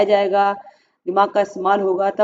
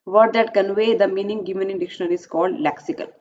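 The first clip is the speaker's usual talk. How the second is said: question read aloud; much slower than usual. Acted. Reads exam question slowly.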